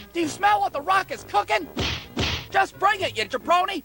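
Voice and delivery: high-pitched kid playing at wrestler trash talk; Dwayne The Rock Johnson. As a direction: shout out the catchphrases like a big-time wrestler. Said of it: "trying to imitate your favorite wrestler".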